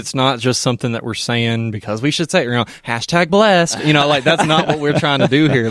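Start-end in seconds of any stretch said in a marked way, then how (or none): 2.9-3.8 put-on airy, drawn-out Valley Girl. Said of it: "I love how you say it in that Valley Girl voice". 3.8-5.7 put-on Valley Girl voice. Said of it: "that Valley Girl voice".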